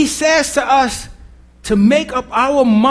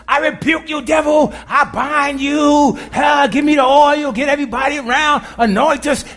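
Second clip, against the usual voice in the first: hammed-up shouting deliverance prayer, pitched up; mock exorcist preacher; 4 semitones higher than usual. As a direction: mimic a showy church exorcism, calling for oil. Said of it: "That's church folk".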